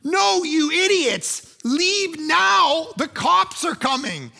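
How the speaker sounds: high, loud, slow shouting; exasperated panic. Retold or imitated. Host to laughing guests as police approach, exasperated retold shout. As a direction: hammer each phrase at people not taking it seriously.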